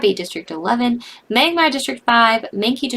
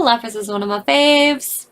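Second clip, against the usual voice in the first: tearful. Real, not acted. Crying over Lapras.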